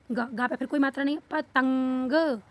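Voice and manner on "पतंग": पतंग slowly, short प then long nasal तंग; drawn-out anusvara. Shown as a demonstration. Teacher putting the word together, drawn-out anusvara. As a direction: sound out पतंग in pieces. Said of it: "इसको कैसे पढ़ेंगे".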